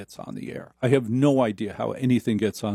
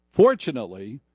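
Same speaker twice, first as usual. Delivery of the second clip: usual speaking voice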